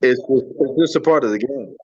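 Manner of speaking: choppy robotic phone audio; garbled, robotic call line; robotic connection. Real, not acted. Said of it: "you sound robotic".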